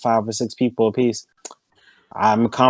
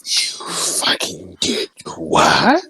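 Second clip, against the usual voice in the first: shocked; 6 semitones lower, much slower than usual. Real, not acted. Shocked reaction to self-harm.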